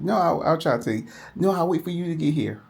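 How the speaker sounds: imitating his slurred voice on the phone; slurred speech. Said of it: "I was like".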